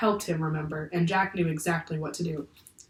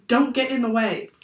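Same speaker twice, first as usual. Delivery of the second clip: higher, mildly raised command; shouted warning; 5 semitones higher than usual. A narrator's reading. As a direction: order them back with some force. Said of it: "the professor shouted".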